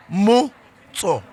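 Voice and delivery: Khomotso drawn out slowly, syllable by syllable; slow name drill. Shown as a demonstration. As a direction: teach Khomotso slowly, every syllable clear. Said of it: "Say Khomotso".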